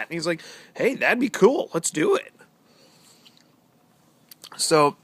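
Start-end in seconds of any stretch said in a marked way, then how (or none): 0.7-2.3 high, loud, overly cheerful mock voice; sarcastic impression of a too-eager guy; mock eager pipe maker. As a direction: ham up his eager agreeableness.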